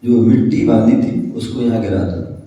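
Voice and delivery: low, measured retold command; calm instruction. Ram finally answers Sita about the soil, calm low instruction. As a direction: break the silence gently, pitched low.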